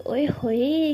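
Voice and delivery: whispered playful tease; teasing whisper. Acted. Saniya teasing blushing Meera, whispered tease. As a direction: breathe it out like a sly jab.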